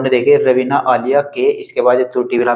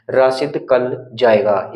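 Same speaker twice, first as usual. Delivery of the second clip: as written, word missing; much slower than usual. Shown as a demonstration. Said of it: "ये ऐसे लिखा था".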